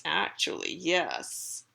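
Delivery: low, quiet cat voice; cat's smug agreement. Acted. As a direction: admit it softly as the cat. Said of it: "And the cat says".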